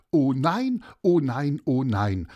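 loud, lightly acted dismay; mild lament. Narrator quotes overheard lament. (leicht gespieltes, lautes Jammern)

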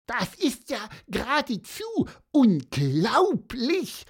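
a touch of amazement, rising on unglaublich; Pieper's wide-eyed echo of the narrator; lightly voiced Pieper, amazed. Pieper marvels at the seahorse's story, mildly amazed.

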